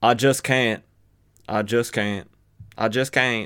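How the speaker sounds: bayou-style Southern American accent on the word I. Trying out a character's line, giving him a Southern accent. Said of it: "trying to give him a Southern accent".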